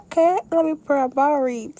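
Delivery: high, loud burst of resolve; determined resolve. Retold or imitated. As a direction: announce it like a big decision. Retold resolve to pray.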